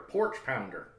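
a hint of a Southern accent; light, playful Southern accent. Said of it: "in a vaguely southern accent".

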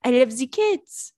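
slow, exaggerated French accent; drawn-out mock French-guy accent. Host repeating her French date's cat line, French accent. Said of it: "French people actually talk like that".

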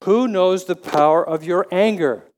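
Who knows the power of your anger? with a rhetorical lean on Who; repeating the verse's question to the congregation, with rhetorical weight. Shown as a demonstration. Rhetorical question, weight on Who. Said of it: "It's a rhetorical question".

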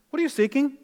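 high, loud pointed question; direct, blunt challenge. Acted. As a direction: cut right to the chase. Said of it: "He cuts right through the chase".

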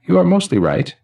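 put-on high, ringing elderly man's voice; chiming old man. Elderly man greeting the newly dead, high and chiming. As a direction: chime each word like silver cymbals and laughter. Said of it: "his voice chiming like silver cymbals and laughter".

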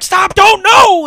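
high, loud mock shriek; mock scream. Retelling a guest star's sudden screaming, high loud mock shriek. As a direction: scream it like a hammy guest star. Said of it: "where she fucking starts screaming".

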